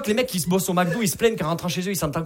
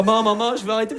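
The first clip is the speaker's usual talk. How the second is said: acted pleading son; 4 semitones higher than usual. Son pleading with his mother.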